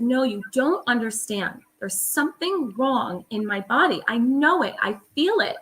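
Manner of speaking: retold plea to a doctor, mildly pleading; pleading insistence. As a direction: beg the doctor to listen, reliving it. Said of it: "I really had to beg".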